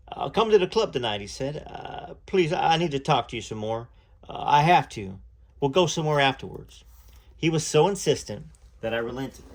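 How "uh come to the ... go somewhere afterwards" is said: lightly voiced southern young man, pleading; pleading Elvis. Elvis urges Lucy to come to the club tonight, pleading. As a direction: beg her to come, stumbling over words.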